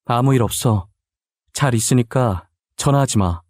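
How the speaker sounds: understated cold, curt brush-off; mildly icy and stiff, no affection. Acted. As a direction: deliver it coolly, shutting the caller out. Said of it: "굉장히 차갑고도 딱딱한 말투로".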